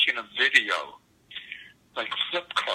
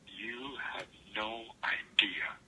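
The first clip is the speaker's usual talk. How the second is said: whispered; 8 dB quieter, much slower than usual. Retold or imitated. Elvis confiding his suffering, retold.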